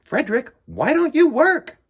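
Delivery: chorus of little mice calling out to him; mice asking. Acted. Mice question Frederick.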